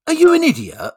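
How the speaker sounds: a big bear talking down to a fool; mocking bear. Joke bear mocks the hunter, high and loud.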